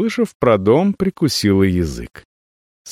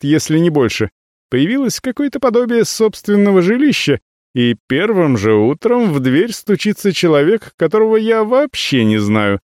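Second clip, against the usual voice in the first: angry; 10 semitones higher than usual. Acted. Nacia threatens the visitor.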